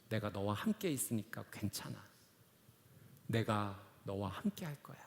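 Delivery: put-on God consoling a child as a father would; comforting father's voice. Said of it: "제가 제 딸에게 해줬던 그 음성으로".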